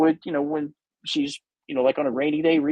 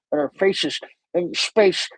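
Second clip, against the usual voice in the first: imitating Holly Hunter. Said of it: "she's talking like this".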